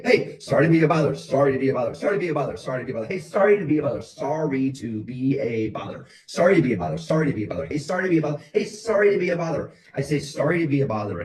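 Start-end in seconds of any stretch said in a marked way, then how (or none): 0.0-9.7 sorry to be a bother, repeated with a new high, loud melody each time; every inflection possible. Shown as a demonstration. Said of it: "in every inflection possible". 10.2-11.2 sorry to be a bother, pitched up; new inflection. Shown as a demonstration. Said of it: "in every inflection possible".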